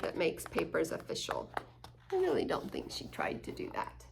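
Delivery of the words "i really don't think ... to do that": whispered aside. Real, not acted. Aside to listener.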